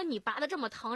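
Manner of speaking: mock an irritable patient's complaint; retold angry scolding. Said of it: "瞪着眼就开始骂我". (转述病人骂人的责备口气)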